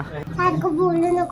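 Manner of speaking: scolding. Real, not acted. Someone scolds the vlogger.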